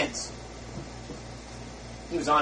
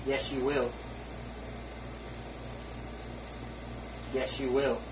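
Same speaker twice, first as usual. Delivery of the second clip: much softer, low and grave; soft answer; 4 semitones lower, 12 dB quieter than usual. Acted. Preacher answering Satan's lie to the congregation, quiet and low. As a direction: let it fall quietly.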